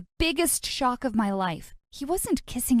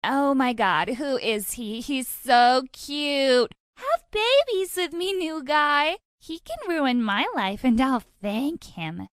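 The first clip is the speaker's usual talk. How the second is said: gushing fangirls; 3 semitones higher, slower than usual. Acted. Girls drooling over her.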